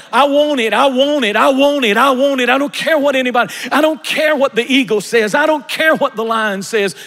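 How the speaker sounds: stubborn. Pretend. Voicing stubborn people.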